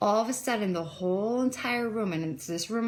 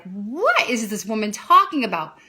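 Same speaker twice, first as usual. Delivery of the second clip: louder, incredulous retold thought; retold disbelief; 5 dB louder than usual. She reacts inwardly to a woman's testimonies, in mock disbelief. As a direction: act out being baffled.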